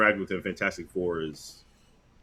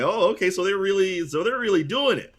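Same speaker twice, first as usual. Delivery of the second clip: mock surprise; 11 semitones higher, 4 dB louder than usual. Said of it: "I'm like".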